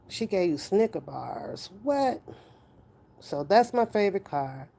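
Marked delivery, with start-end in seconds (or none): 1.8-2.2 surprised. Real, not acted. Reacting to chat comment.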